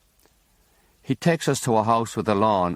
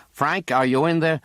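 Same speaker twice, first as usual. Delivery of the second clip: priest calling through door; 6 semitones higher than usual. A narrator's reading. Priest calling through the bedroom door, raised and higher. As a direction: call through the locked door.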